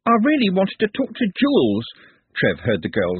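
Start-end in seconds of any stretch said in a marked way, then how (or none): 0.0-1.9 forlorn. A narrator's reading. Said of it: "the girl's plaintive voice".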